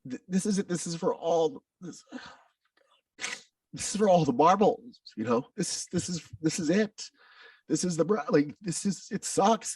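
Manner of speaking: high, half-whispered pep talk to himself; breathy inner voice steeling himself; intense self-talk. Retold or imitated. Boy telling himself to testify, high urgent whisper. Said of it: "I just had to say".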